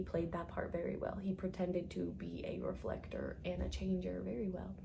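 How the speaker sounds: whispered aside. Real, not acted.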